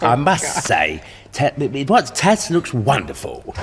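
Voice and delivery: smarmy TV presenter voice; Bruce Forsyth impression. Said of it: "you're doing Bruce".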